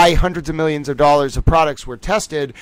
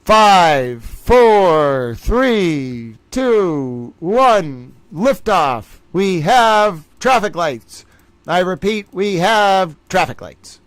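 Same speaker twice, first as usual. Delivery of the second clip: slow, drawn-out launch call; mock mission control; 3 semitones higher, much slower than usual. Streamer counting down to the final trivia round, mock mission control. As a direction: announce the liftoff like ground control, slowly.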